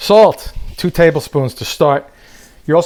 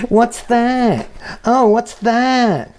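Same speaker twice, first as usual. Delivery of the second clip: high, mocking guest voice; 9 semitones higher, much slower than usual. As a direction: squeal it like a picky guest. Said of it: "they're like".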